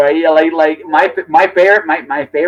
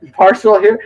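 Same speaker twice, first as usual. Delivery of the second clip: Heenan biased announcement; 6 semitones higher, 5 dB louder than usual. Retold or imitated. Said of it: "he's like".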